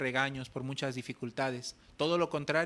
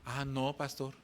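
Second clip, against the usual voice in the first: louder, higher laughing plea; pleading disciple; 4 semitones higher, 6 dB louder, slower than usual. Retold or imitated. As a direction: beg him not to let go, half laughing. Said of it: "el Gabriel que le contestó".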